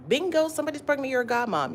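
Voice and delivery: fast, high excited punchline; playful surprise. Acted. Telling viewers how friendships grow, playful surprise. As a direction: pop it out with surprise. Sudden twist in story.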